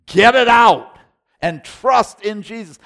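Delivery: high shout that settles back down; shouted exhortation. Real, not acted. Pastor shouting at Christians to trust Jesus, loud and high. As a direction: call them out, then point to Jesus.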